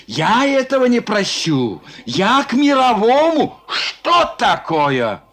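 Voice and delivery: mild panting indignation; breathless outrage. Acted. Resnikov flustered before the merchants, mildly breathless. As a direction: gasp it out in a fluster. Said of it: "задыхаясь, говорил".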